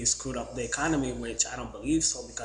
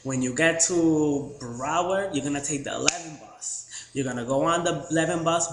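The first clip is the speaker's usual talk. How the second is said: loud directions guy; 3 semitones higher, 5 dB louder than usual. Retold or imitated. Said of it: "I can't even talk the way that he was".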